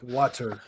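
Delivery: WATER with a deliberately sounded T; hard T. Shown as a demonstration. Critic of the excessive hard T, demonstrating WATER with that T. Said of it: "excessive to add the hard T on it".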